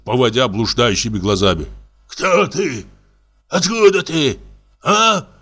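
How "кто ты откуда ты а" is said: put-on drunken roar. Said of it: "заревел он".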